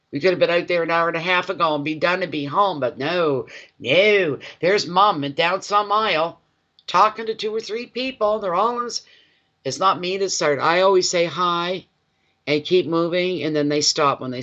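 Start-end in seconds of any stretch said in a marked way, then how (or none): 0.1-9.0 higher-pitched mock grumbling; exasperated retold complaint; complaining kids. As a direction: imitate kids griping about their mother. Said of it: "they would tell their other friends".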